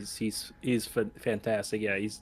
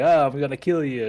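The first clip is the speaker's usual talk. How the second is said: raised, louder mock threat; joking threat; 4 semitones higher, 6 dB louder than usual. Retelling a drunk man with a crossbow, joking threat. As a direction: toss it out as a playful threat. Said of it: "like, jokingly".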